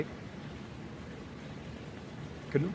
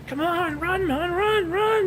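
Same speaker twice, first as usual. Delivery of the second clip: Sean Connery yell; slower than usual. Retold or imitated. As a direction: urge the slow jogger on, frantic and Scottish. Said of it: "he's yelling at him".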